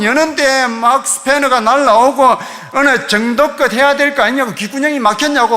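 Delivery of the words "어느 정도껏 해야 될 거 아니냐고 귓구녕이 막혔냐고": mild mock yell, irritated; exasperated telling-off, lightly acted; retold angry cursing. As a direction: imitate a fed-up man berating a visitor. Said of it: "했던 욕의 두 배가 막 날라오는데".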